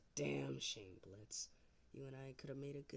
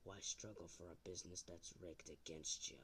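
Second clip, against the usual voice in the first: overacted amateur dub; 3 semitones lower, 3 dB quieter than usual. Low seductive persuasion.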